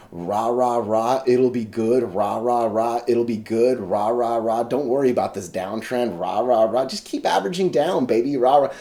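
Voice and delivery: mock the stock pumpers' cheering; mock cheerleader. Mocking YouTube stock pumpers to viewers, hammed-up cheerleader chant. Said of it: "just kinda say".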